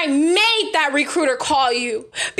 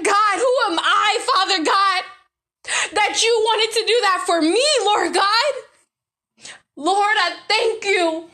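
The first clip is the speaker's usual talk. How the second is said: emotional, near tears. Real, not acted. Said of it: "I get emotional".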